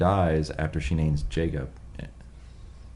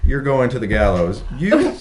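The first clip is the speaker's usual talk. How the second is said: high, loud hammed-up judge voice; squealing high mock sentencing; mock English judge; 14 semitones higher, 6 dB louder than usual. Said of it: "They're like".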